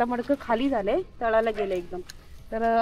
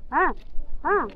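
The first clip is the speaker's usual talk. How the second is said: usual speaking voice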